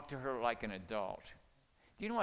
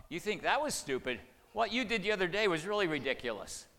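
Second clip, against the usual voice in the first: louder, higher mock snapping back; childish retort; 5 semitones higher, 5 dB louder than usual. Spouse firing back at a condescending partner, mildly heated. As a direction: hit back like a sulky child. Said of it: "the other person has to make a decision".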